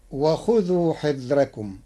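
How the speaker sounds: حذركم with a thin ra; light ra. Shown as a demonstration. Teacher demonstrating Warsh, حذركم with a light ra. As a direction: soften the ra in حذركم. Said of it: "بترقيق الراء".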